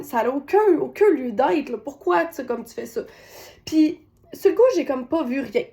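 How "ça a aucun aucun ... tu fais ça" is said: sharp, raised reproach that fades at the end; angry scolding. Retold or imitated. Mother scolds son at family dinner, angry scolding. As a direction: scold the child, irritated. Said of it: "j'étais en colère".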